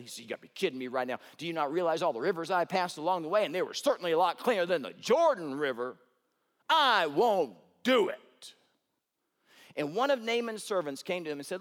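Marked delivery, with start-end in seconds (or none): 0.2-1.2 rattled off fast, mock exasperation; fast annoyed outburst. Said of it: "And Naaman's upset". 1.4-8.2 mock stubborn refusal. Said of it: "And Naaman's upset".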